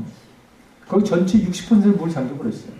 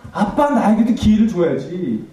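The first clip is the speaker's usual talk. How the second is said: slow, louder pleading cry of '아빠'; imitated tearful cry; 5 semitones higher, 5 dB louder, slower than usual. Daughter begging her father for another chance, pleading cry. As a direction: plead with a dead father, voice rising. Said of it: "내가 뭐라고 얘기했냐면".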